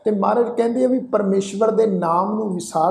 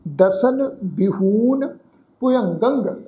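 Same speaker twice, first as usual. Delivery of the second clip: slow, drawn-out chanting of the verse; slow scripture recitation; much slower than usual. Shown as a demonstration. Teacher recites the verse for the congregation, slow chant. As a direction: intone each word slowly and reverently.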